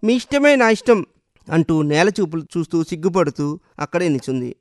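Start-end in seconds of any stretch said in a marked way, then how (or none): 0.0-1.1 higher, bashful answer; shy bride-to-be answering; shy reply. A narrator's reading. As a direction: say it shyly, eyes down. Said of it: "సిగ్గుతో తలదించుకొని".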